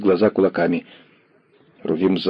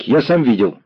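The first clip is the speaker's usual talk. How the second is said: put-on hasty boy; 4 semitones higher than usual. A narrator's reading. Lame boy blurting out to the commissar, high and hurried. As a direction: blurt it out fast like a scared kid.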